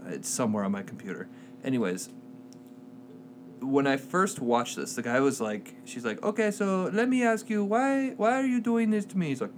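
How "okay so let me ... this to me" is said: high-pitched put-on Hispanic accent; mock Hispanic accent, hammed up; terrible Hispanic accent. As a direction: imitate her in a badly faked Hispanic accent, pitched up. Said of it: "That's a terrible accent".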